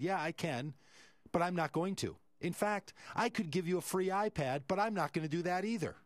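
snippy refusal. Retold or imitated. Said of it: "he gets snippy".

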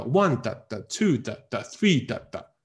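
full "one", "two", "three" with weak 的 beats between; rhythmic stress on "one", "two", "three". Shown as a demonstration. Teacher builds rhythm for students, stressed "one", "two", "three". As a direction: beat out "one", "two", "three", each followed by two light 的. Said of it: "你为了让它节奏出来".

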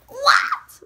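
high, loud, laughing what; sudden laughing outburst of shock; shocked shout. Real, not acted. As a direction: yelp it out in disbelief. Shocked reaction to trailer moment.

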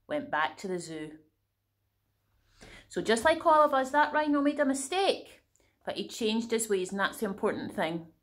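lively picture-book reading voice; animated storytime narration with character voices; story narration. A narrator's reading. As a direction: read it like a bedtime story to kids. Reads a picture book aloud.

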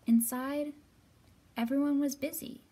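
lively storybook reading; story narration. A narrator's reading. Librarian reading the story aloud to children, lively.

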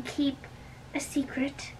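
soft unvoiced whisper; whispered secret. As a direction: breathe it like a confidence. Nurse asks about secrecy.

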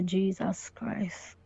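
slow, breathless whisper of disbelief; whispered dismay. Retold or imitated. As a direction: whisper it, stunned. Stunned by friend's confirmation.

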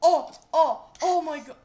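loud laughing oh my God; real laughing outburst; laughing exclamation. Real, not acted. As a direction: crack up at the screen. Laughing at dying in game.

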